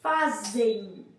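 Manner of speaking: "fazem" with the final syllable run through the nose, like "fazein"; teacher's slow demo of "fazem"; nasal ending. Shown as a demonstration. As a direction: let "fazem" end in a nasal diphthong. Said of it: "quando você fala assim".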